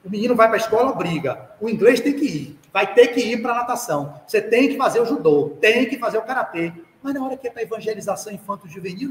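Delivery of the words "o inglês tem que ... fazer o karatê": loud, firm list of musts; a parent hammering out obligations; insistent parental demands. Retold or imitated. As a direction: lay down the law on each activity.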